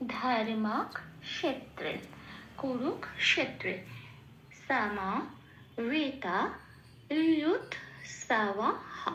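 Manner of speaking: slow, syllable by syllable chant of the verse line; teacher reciting the whole line slowly; slow Sanskrit recitation. Shown as a demonstration. Teacher demonstrating the verse line, slow recitation. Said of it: "তাহলে পুরো লাইনটা কি পেলাম?".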